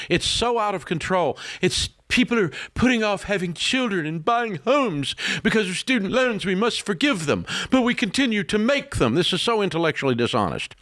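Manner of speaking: heated rant. Real, not acted. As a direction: pitch climbing high and urgent. Ranting about student loans.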